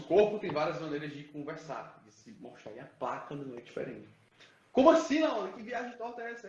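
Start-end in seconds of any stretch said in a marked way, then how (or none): 4.7-6.5 high-pitched incredulous question, loud at the start; acted disbelief. Speaker voices a listener doubting the topic, incredulous. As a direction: play a baffled listener objecting.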